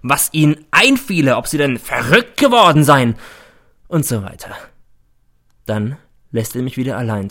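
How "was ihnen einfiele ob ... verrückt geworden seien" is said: put-on loud, raised tirade at the boys; loud, high theatrical fury; roaring rant. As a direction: storm at the class like a hammy headmaster. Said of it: "brüllt er".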